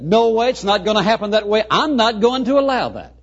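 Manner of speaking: acted firm refusal. Peter objects to Jesus' plan.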